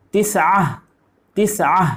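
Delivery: تسعہ said twice, short and clear; Arabic drill repeat. Shown as a demonstration. Teacher drills Arabic nine for pupils, short clear repeats. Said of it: "نو کو بولتے ہیں تسعہ".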